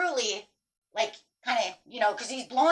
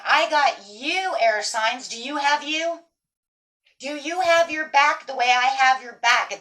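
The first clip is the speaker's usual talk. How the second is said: slow, louder pointed question; challenging universe; 5 dB louder, slower than usual. Pretend. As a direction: press them, as the universe, slowly. Universe challenging the air signs.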